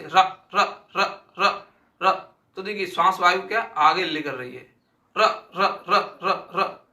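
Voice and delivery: teacher rolls र again and again, half laughing; rolled r demo. Shown as a demonstration. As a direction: roll each र with a buzzing trill. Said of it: "इसका उच्चारण करके देखते हैं कि लुंठित".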